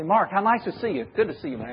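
over-eager, gushing hello to a friend; extreme sanguine greeting. Shown as a demonstration. Preacher demos the extreme sanguine greeting to Mark, gushing. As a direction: greet him like the life of the party. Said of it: "kind of the extreme sanguine".

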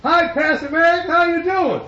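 loud, high, bouncy hello; a friend's sunny loud hello at the door; cheery greeting. Retold or imitated. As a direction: greet the pastor like the happiest man alive. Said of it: "he goes".

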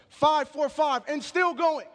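builds to a shout on still going; rising preacher shout. Acted. Preacher rousing the church with the woman's score, building shout. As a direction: push it up like a rallying cry.

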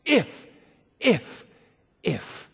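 each if punched, then fading away; three taunting ifs. Shown as a demonstration. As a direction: spit out "If, if, if" as mounting taunts. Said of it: "three ifs are embedded in those taunts".

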